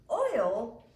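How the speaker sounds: loud, indignant holler. Acted. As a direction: bellow the word in outraged disbelief. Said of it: "Imogene hollered".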